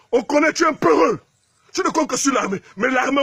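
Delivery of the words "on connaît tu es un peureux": taunting shout. Real, not acted. Taunting the president.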